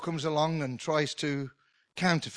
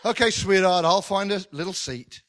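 husband voiced; 4 semitones higher, 4 dB louder than usual. Husband voiced waiting for wife.

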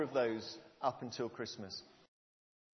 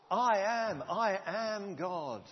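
voice of God; 5 semitones higher, much slower than usual. Acted. Preacher voices God speaking.

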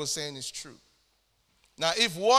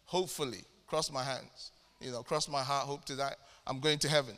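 mock unsure believer; 4 semitones lower, 4 dB quieter than usual. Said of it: "many Christians will say".

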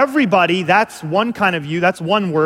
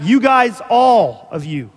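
ALL drawn out and loud; stress on ALL; 4 semitones higher, 4 dB louder, slower than usual. Shown as a demonstration. Preacher explaining the plural you, stress on ALL. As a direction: lean hard and long on "all".

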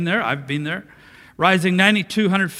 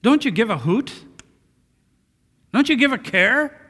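higher-pitched, disrespectful challenge; rude, disrespectful; 6 semitones higher than usual. Acted. Disciples to Jesus asleep in the storm, rude reproach. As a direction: throw indignant questions at someone who should care. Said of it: "a note of rudeness and disrespect in the way they were saying it".

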